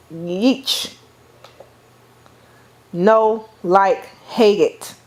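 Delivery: mildly imitated kid disgust; toddler's disgust. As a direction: pull back from the taste like a small child. Child tasting new food.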